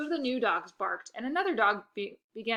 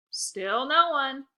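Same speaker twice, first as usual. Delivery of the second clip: very slow, mocking sing-song; sarcastic sister; 5 semitones higher, 6 dB louder, much slower than usual. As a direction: stretch it out to rub it in. Lexi teasing again.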